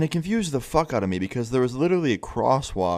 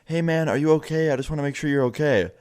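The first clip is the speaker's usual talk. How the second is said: higher-pitched calling out, only slightly raised; mild retold yell; 5 semitones higher than usual. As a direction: imitate yelling to someone from a car window. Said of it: "just yells at the guy".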